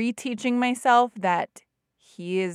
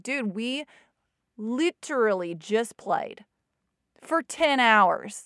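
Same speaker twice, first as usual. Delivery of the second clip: exasperated; 2 semitones higher, slower than usual. Retold or imitated. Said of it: "trying to rise with him".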